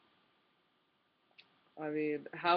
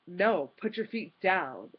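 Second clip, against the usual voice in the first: mock yell; 3 semitones higher, 5 dB louder, slower than usual. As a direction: play the grumpy moviegoer ordering her about. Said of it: "Why are you yelling at me?".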